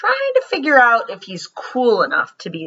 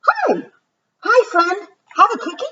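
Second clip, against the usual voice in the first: much higher, bright cartoon voice; squeaky friendly hi; 12 semitones higher than usual. Superhero in the drawing offering a cookie, squeaky high greeting.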